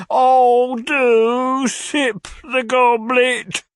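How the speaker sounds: high, very slow, swooning plea; imploring suitor. A narrator's reading. Old gentleman urging Mrs Nickleby, imploring. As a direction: beg theatrically with drawn-out words.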